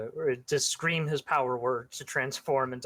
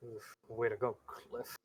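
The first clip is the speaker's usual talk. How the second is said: muttering; 8 dB quieter than usual. Acted. Late hero scolding himself, muttering. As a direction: mutter it under your breath, fading to almost nothing. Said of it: "He's muttering that".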